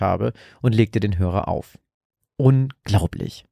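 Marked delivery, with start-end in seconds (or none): 2.4-3.5 slow, scornful snort of a word; indignant, drawn-out disbelief. A narrator's reading. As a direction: huff it out, fed up. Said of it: "schnaubte sie".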